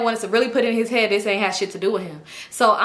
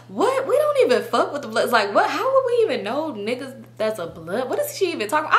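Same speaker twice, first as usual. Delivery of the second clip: higher-pitched incredulous questioning; mock bafflement; 4 semitones higher than usual. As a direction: play the friend, baffled and indignant. Retelling friend's baffled reaction.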